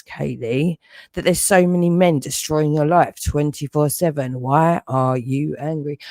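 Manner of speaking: mocking the watchers. Mocking the night-time watchers with a needling taunt. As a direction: sneer their questions back at them. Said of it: "questioning why in the middle of the night".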